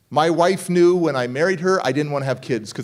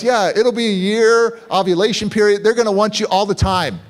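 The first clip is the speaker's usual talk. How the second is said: friend's voice; 4 semitones higher, 4 dB louder than usual. Retold or imitated. Friend pitching the upside.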